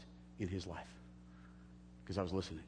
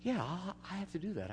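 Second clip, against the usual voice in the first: inner voice; 9 semitones higher, 5 dB quieter than usual. Retold or imitated. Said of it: "my mind says".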